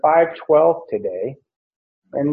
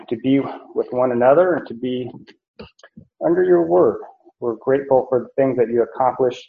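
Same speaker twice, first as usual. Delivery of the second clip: quick, hushed prayer voice; 3 semitones lower, faster than usual. Acted. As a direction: pray it fast and low-key to the congregation. Opening prayer before teaching.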